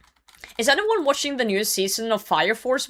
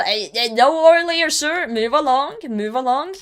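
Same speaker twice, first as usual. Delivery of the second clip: mock guard voice; 6 semitones higher, 5 dB louder than usual. Playing guard shooing someone off.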